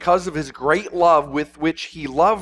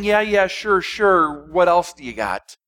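bored brush-off. Retold or imitated. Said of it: "And John's not saying".

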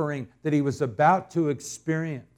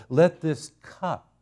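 slow phrase landing on a weighted "cup"; "cup" stretched out and left hanging; stress on cup; 2 semitones higher, slower than usual. Shown as a demonstration. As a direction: lean on "cup" and leave a pause after it. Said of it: "I wanna emphasize the word cup".

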